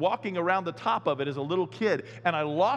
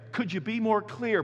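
sarcastic; 4 semitones higher than usual. Retold or imitated. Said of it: "that was a little sarcastic".

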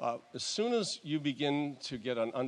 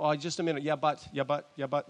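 imitated protest, a bit higher and louder; mock objecting; 3 semitones higher, 5 dB louder than usual. Doubters answering God's verdict, mock protesting. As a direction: cut in with stammered objections, mimicking doubters. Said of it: "And many would go".

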